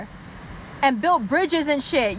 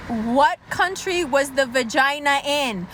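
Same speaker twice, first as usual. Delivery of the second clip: insistent questioning. Acted. Exasperated interrogation, first take.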